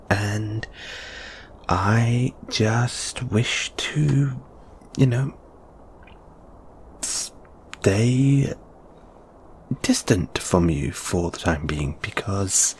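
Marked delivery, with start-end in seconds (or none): 1.7-12.7 halting and softer, searching for words; hesitant, evasive explanation; awkward excuse. Acted. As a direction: stall through a reluctant excuse.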